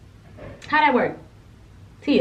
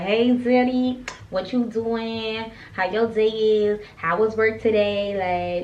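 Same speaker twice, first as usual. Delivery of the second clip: slow, drawn-out sweet talk to a new boo; sweet flirty texting voice; much slower than usual. Retold or imitated. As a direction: coo it slowly like you're sweet on him. Acting out sweet texts to boo.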